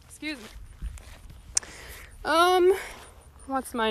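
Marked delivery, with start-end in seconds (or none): 0.1-1.6 quiet excuse me. Real, not acted. Throat clear then apology.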